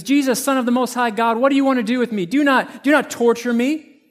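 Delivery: a hint of a tormented man crying out; mock shriek. Possessed man yelling back at Jesus, mild mock shriek. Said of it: "this man shrieks and yells back".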